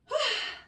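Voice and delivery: short high puff of breath; quick pre-set huff; sharp exhale. Real, not acted. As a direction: blow out before the effort. Blowing out before a set.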